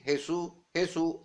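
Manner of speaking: "Jesús" as heh-SOO, final stress; Spanish h in "Jesús", last syllable stressed; Spanish mispronunciation. Shown as a demonstration. Preacher quoting converts' version, "Jesús" as heh-SOO. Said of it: "le dieron una mala pronunciación".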